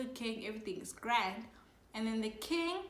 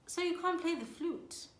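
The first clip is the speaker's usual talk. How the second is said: pointed comeback; 4 semitones higher than usual. Retold or imitated. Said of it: "looks him dead in the eyes".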